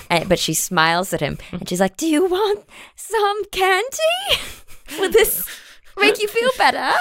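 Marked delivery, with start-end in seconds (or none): 2.0-6.9 put-on scary woman offering candy to a crying kid, sing-song; creepy candy offer. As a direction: coo it sweetly but unsettling. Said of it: "she looks terrifying".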